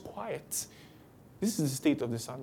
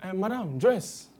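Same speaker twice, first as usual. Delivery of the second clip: bus passenger; 3 semitones higher than usual. Retold or imitated. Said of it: "someone enter and say".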